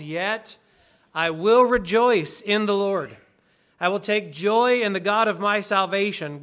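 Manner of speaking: measured, declaimed Bible reading; solemn reading with weighted pauses; scripture reading. Acted. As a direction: read scripture aloud to a congregation, phrase by phrase. Reads the call to worship.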